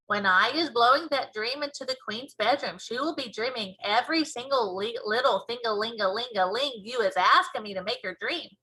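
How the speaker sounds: put-on cheerfully convince the girl, slowing at the end; BFG voice. BFG explaining dream.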